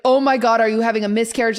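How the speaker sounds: retold freaking out. Retelling a coworker's bleeding to a friend, mock alarm. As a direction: replay the panic of seeing the blood. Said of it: "Like, freaking out".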